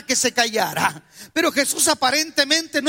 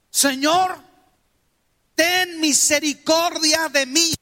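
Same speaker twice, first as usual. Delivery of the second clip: pleading woman crying out, a touch higher; 3 semitones higher than usual. Acted. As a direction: beg the Lord like a desperate mother. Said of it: "una mujer da gritos, levanta su voz". (mujer suplicando a gritos, un poco más aguda)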